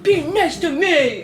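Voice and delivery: high, drawn-out bratty demand; bratty Beast. Retold or imitated. Beast demanding kindness from Belle, bratty. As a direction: whine it like a spoiled brat. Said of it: "he's, like, a total brat".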